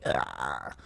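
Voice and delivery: a squirrel fried in the zapper, softly; dying squirrel squeak. Retold or imitated. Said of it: "you hear something going".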